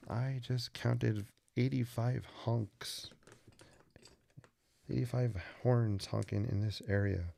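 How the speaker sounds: slow, lightly voiced Jen counting honks; Jen impression. Imitating Jen stuck under the arch, slow weary voice. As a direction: drag the words out like a bored, weary New Yorker. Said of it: "that's my best Jen impression".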